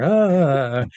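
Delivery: drawn-out mock laugh; imitated harder laughter. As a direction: mimic a couple laughing hard with one long "ahh". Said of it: "they're laughing even harder".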